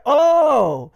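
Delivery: high, loud imitated "oh" of realization; mock surprised exclamation; dawning realization. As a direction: act out suddenly getting it. Acted sudden realization in retold dialogue.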